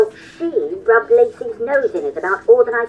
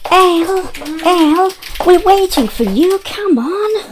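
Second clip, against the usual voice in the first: raised, higher call across the house; 6 semitones higher, 4 dB louder than usual. Acted. Friend calling Elle to come play the game, loud and high. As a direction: call her in from another room.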